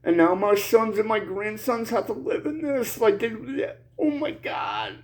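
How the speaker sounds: real tears, words breaking off; crying. Real, not acted. Father grieving for sons and grandsons, crying. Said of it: "I'm crying like a bitch".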